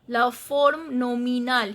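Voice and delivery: "La forme nominale" closing on a sounded L; silent final E. Shown as a demonstration. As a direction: finish "nominale" on L, no E. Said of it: "I am not pronouncing the E".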